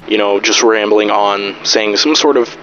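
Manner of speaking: compressed, boosted recording; squashed by a limiter. Shown as a demonstration. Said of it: "it sounds a bit like this".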